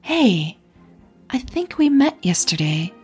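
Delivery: warm and caring. Acted. Blonde woman greets a near stranger, warm and caring. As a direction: greet her with gentle concern. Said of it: "voice was warm and caring".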